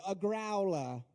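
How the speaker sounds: put-on British accent on the slang word; imitated British accent. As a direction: say it like a British lady. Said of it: "imagine it in that accent".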